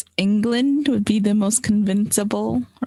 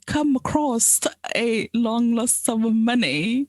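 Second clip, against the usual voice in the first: put-on English accent. Improvised scam pitch as Harry's cousin, mock English accent. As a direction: play-act a scammer with an English accent. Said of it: "Okay, you're from England".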